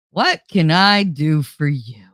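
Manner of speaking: forced helpful. Shown as a demonstration. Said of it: "when I say it like that".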